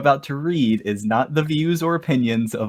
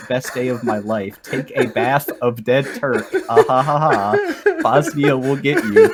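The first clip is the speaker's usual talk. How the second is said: hammed-up broken-English rant. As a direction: read it like a laughing, ranting troll. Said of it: "the official lyrics".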